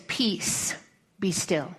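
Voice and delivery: hushed, breathy, calm command; Jesus speaking softly to the wind and waves. Acted. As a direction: still the storm with a whisper. Jesus calms the storm.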